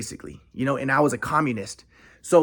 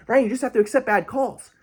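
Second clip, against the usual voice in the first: slightly put-on, higher grandpa voice; mock soothing grandpa; 5 semitones higher than usual. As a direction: imitate grandpa's advice, pitched up. Voicing grandpa's advice again.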